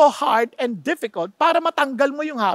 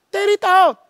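forceful scripture; 6 semitones higher, 5 dB louder than usual. Acted. Preacher quoting Bible forcefully.

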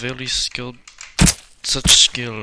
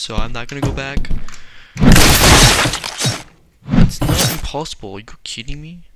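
gamer reacting in a mock German accent; put-on German accent; 5 dB louder than usual. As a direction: play it with a hammy German accent. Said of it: "I'm getting tired of doing ac-, accent".

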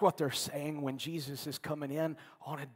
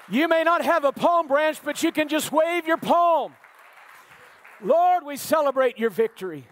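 loud, high, full-force preaching; fervent preaching; 7 semitones higher, 8 dB louder than usual. Acted. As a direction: preach it out to the congregation.

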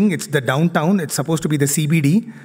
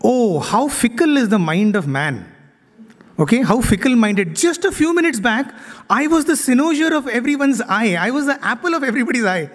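higher, self-pitying donkey lament; 6 semitones higher than usual. Retold or imitated. Donkey lamenting on the way home, higher and self-pitying. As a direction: sigh over the world's fickleness, pitched up. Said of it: "he starts to think".

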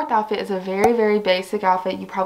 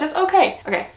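breathless and a bit winded; out of breath; 6 semitones higher than usual. Real, not acted. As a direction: catch your breath while talking. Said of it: "I'm out of breath".

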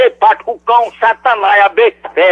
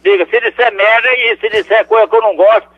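angry outburst. Real, not acted. Old man yells at the prank caller, furious. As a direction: curse them out, rising to a bark at the end.

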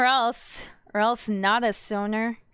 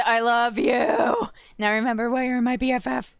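excited shout; 3 dB louder than usual. Acted. Thrilled reply to friend.

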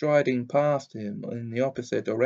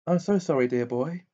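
dreamy; 3 semitones higher than usual. Acted. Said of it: "she said dreamily".

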